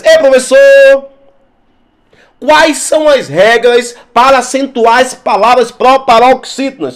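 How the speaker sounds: lightly voiced eager student calling out; a hint of a student calling to the teacher; student question. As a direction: play a student raising a question.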